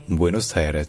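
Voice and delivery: "Buenos Aires" as bwé-nos aï-rés, in four syllables; Spanish pronunciation. Shown as a demonstration. Teacher recapping the four syllables, Spanish pronunciation. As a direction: say "Buenos Aires" with a sounded final s. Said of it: "c'est vraiment en quatre syllabes".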